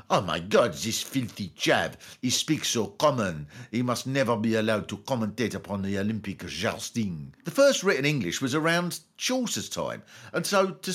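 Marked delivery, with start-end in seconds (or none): 0.1-7.3 lower, lightly snobbish scoff; a hint of a disdainful aristocrat; sneering posh. Posh people mocking a common speaker, lightly snobbish. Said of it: "posh people of the time would have said".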